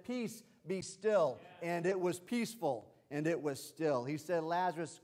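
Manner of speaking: high-pitched, fired-up sermon delivery; excited preaching. Real, not acted. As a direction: preach it worked up, punching every key phrase. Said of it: "I get excited about that".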